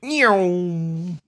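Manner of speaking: playful cat meow for a hot rod; mock engine meow; hot rod noise. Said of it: "That was the Hot Rod noise".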